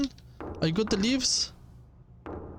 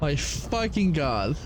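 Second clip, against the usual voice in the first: slow, drawn-out disbelief; exasperated; 4 semitones lower, slower than usual. Real, not acted. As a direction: drag it out, fed up. Exasperated after long walk.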